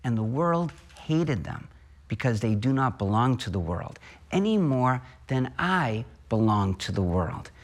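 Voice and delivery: solemn, measured liturgical reading; gospel reading. Acted. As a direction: proclaim scripture to the congregation. Gospel read aloud at Mass.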